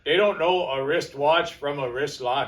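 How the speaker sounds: mock Canadian accent. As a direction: play up a jokey Canadian accent. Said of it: "That's my Canadian, my Canadian accent".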